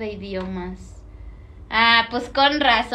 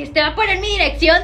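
mock alarm; 6 semitones higher, 7 dB louder than usual.

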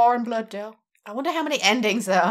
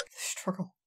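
spooky whisper; 3 semitones lower, 14 dB quieter than usual. Pretend. Echoing witch's word in whisper.

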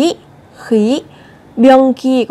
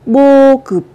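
whisper; 4 semitones higher, 4 dB louder than usual. Shown as a demonstration. Whispered then loud model word.

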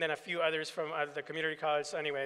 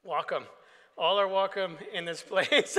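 amused welcome; 5 dB louder than usual. Retold or imitated. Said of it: "and I'm like".

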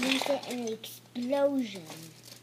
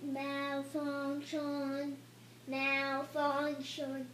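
robotic error message; 4 dB quieter, much slower than usual. Pretend. Robot character malfunctioning.

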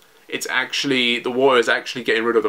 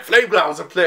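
higher-pitched, strained mock command; Momonosuke; 5 semitones higher than usual. Narrator voicing a last-minute command when hope is lost, mock cry. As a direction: imitate a desperate summoning cry.

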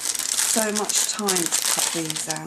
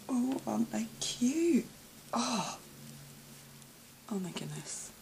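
a higher, whispered coo; 5 semitones higher, 4 dB quieter than usual. Real, not acted. Cooing over tiny crochet flowers, whispered. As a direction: coo over them softly. Admiring gifts, hushed.

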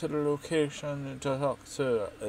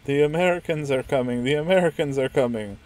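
mock town-crier shout; 4 semitones higher, 10 dB louder than usual. Mock announcement of invasion.

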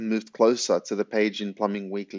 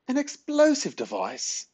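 very high, slow, shocked squawk; spluttered disbelief. A narrator's reading. Granny shocked by Ben's plan, spluttering question. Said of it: "spluttered Granny".

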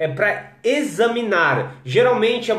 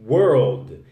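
put-on world e girl said very slowly, each sound stretched; slow pronunciation demo; 6 semitones lower, much slower than usual. Shown as a demonstration. Teacher models two hard words for a viewer: very slow. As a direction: drag out world and girl so every sound shows. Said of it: "duas palavras que você tem que treinar".

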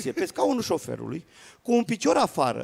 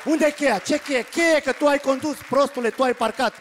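higher-pitched exasperated back-and-forth; hammed-up domestic squabble; acted bickering; 5 semitones higher than usual. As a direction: bicker over the lost key, voice raised in pitch. Acted quarrel over car key.

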